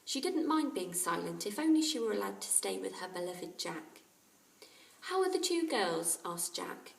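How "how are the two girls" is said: put-on high, loud young boy; boy's voice. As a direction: hush the parrot firmly. Jack voiced in story.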